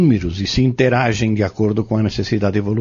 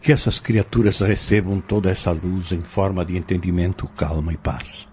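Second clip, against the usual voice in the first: solemn prayer. Acted. Fabrício prays for the tormented girl, solemn and pleading. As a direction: pray earnestly over the possessed girl.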